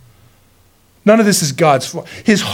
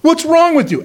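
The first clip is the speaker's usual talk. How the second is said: mocking retold curse; 7 semitones higher than usual. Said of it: "And he's cursing".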